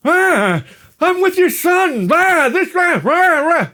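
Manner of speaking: very high, loud nagging-wife caricature; mock wife screech. Wife answering husband's call, hammed-up screech. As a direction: squawk it like a cartoon wife.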